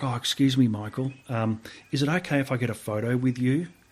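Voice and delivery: mock bashful, hesitant, sheepish, shy, polite tone. Retelling how Kathy Freeman asked for a photo: imitating Kathy Freeman sheepishly. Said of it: "she's very sheepish. She's a very shy lady".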